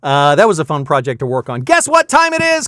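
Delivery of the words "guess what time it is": high-pitched hype announcement; excited game-show host. Pretend. Livestream host announces it's time for the giveaway, excited. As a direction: burst in with a big high-energy segment intro.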